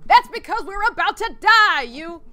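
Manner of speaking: high frantic Southern yell; Southern accent. Acted. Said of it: "that's a Southern accent".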